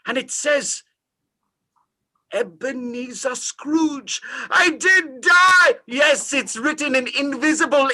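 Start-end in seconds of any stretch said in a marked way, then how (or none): 2.3-5.7 slow, rising into a shout; horrified reading. Acted. Scrooge reading his own tombstone, building to a horrified shout. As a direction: read it slowly, then cry out in horror.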